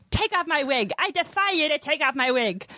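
high, mock-defiant coworker character; Nick Hansen. Sketch murderer challenges the table, high mock-defiant impression. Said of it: "he'd be like".

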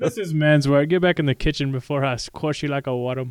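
Braveheart Scottish bark. Pretend. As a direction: ham up a Braveheart Scot. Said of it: "you had to get the Braveheart in there".

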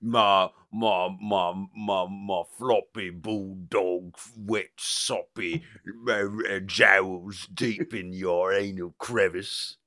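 slow, leering, lightly voiced demon; mock bulldog tease. Bulldog taunting Constantine, slow leer. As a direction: draw out each word like a taunt. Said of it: "maybe that he's like".

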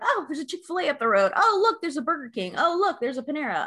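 quick, high-pitched "oh, look" discoveries; spotting things excitedly. Retold or imitated. Acting out spotting roadside signs.

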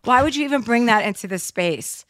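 an exasperated sister scolding a joking brother. Retold or imitated. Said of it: "She's like".

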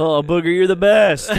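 high loud cheer; loud goofy cheer. Retold or imitated. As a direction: cheer it like a frat bro. Revenge of the Nerds quote.

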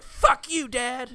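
high, loud bratty yell at dad; teenage daughter screaming at her dad, high and loud; furious teen scream. Retold or imitated. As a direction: scream it at him like a raging teenager.

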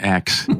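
"axe" said for "ask"; "ask" with its consonants swapped to "aks"; mispronounced "ask". Shown as a demonstration. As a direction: show the Brooklyn slip, "axe" for "ask". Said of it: "same issue with ask and axe".

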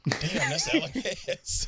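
high-pitched awe breaking into laughter; starstruck. Retold or imitated. Guest recalling freezing on seeing Mister Hess, starstruck. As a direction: gush at spotting a celebrity.

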